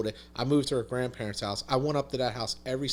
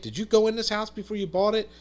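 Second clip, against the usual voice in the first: higher, incredulous question to his son; a stunned dad, half laughing in disbelief; shocked father; 8 semitones higher than usual. Retold or imitated. Dad seeing the flooded house, asking his son in disbelief.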